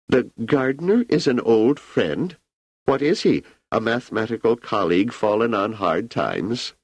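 put-on an ageing emperor musing easily to an old friend; Emperor Cleon.

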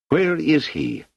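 high, choked cry; strangled voice. A narrator's reading. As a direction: force it out through a tight throat. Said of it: "in an almost strangled voice".

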